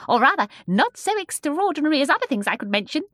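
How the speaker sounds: high, loud, amused hinting; hint at secrets with amusement; chuckling. A narrator's reading.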